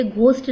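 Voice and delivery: "घोस्ट" with a breath of H after the G; H wrongly sounded. Shown as a demonstration. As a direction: aspirate the G in "घोस्ट". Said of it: "ये घोस्ट नहीं है".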